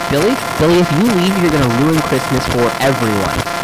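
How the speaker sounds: loud, high furious threat; yelling threat. Acted. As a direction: yell at the kid to stay. Threatening child loudly.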